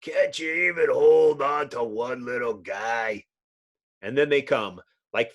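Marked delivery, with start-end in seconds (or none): 0.0-3.2 exasperated shout. Acted. Hero shouting at teammate.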